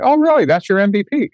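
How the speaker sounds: high, skeptical "Oh, really?"; mock disbelief. Teacher doubting students' MVP.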